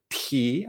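Ti drawn out with the pitch climbing; rising tone on Ti. Shown as a demonstration. Teacher shows learners the upward tone, Ti rising. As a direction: say Ti as a long upward glide. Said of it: "hacia arriba".

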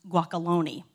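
put-on guacalone with an L and a lone ending, the way the toddler says it; son's childish guacalone; toddler mispronunciation. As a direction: say guacalone as a little kid would. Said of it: "guacamole like Sully says it".

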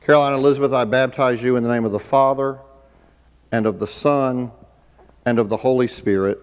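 normal talking voice

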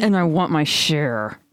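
creepy voice through gritted teeth; creepy voice, spoken through clenched teeth. Acted. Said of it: "I wanna hear your creepy voice".

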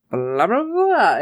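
blah-blah babble swooping up high; mock gush of nonsense, rising sharply; word vomit. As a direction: imitate words spilling out. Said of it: "it's like word vomit".

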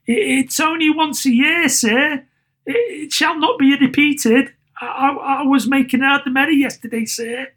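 high, stammering excuses; flustered underling, pitched right up; timid, pleading clerk. A narrator's reading. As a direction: beg meekly in a high voice. Clerk pleads with his boss.

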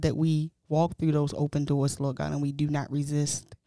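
earnest spoken prayer. Real, not acted. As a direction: pray it out, steady and sincere. Closing prayer.

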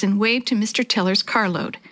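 plain reading voice

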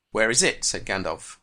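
reading a novel scene with lightly voiced characters; teacher reading a Tolkien extract to the class; story reading. A narrator's reading. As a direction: bring the dialogue to life as you read.

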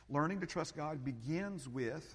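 "begins" leaned on, slow and deliberate; slow down and hit "begins"; stress on begins. Shown as a demonstration. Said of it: "I'm emphasizing that word begin".

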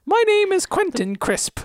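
put-on high silly Monty Python British accent; hammed-up Monty Python British accent. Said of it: "They all sound like Monty Python today".

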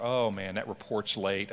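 mildly downcast morning worrying; mumble-to-yourself worry, a touch dejected; understated glum self-talk; a little down. Acted. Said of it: "start feeling a little down about".

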